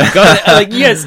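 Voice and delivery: high, loud sarcastic cheer; mock cheer. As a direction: cheer it like a fan.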